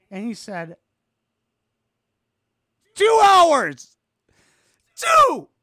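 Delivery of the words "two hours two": very high, very loud yell; explosive high-pitched mock outrage; hammed-up outraged shout. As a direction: blow up on the punchline. Outraged punchline of tattoo story.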